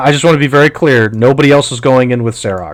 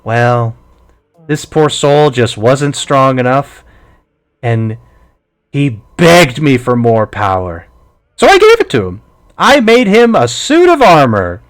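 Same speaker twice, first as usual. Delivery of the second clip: put-on gloating old witch, pitch jumping up; sly crone boasting of her work; old hag voice. GM voicing the hag.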